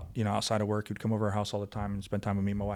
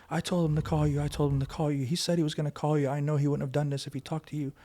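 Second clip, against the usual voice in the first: higher-pitched, pleading retelling of grief; retold distraught mother; 4 semitones higher than usual. Mother telling officer her son spoke of him, retold distress. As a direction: mildly imitate a mother crying out, voice raised in pitch. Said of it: "they start screaming, like, crying, going crazy".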